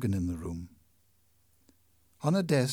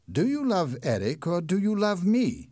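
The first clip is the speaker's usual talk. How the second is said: louder, urgent lover's question; a hint of jealous Raoul; 4 semitones higher, 5 dB louder than usual. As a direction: demand the truth from her.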